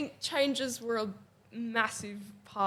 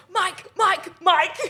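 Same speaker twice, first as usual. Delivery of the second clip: high, louder calls for the mic, half laughing; retold urgent call; 12 semitones higher, 8 dB louder, slower than usual. Performer running offstage to get help with a fallen mic, urgent retold call. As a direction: act out calling out urgently from offstage.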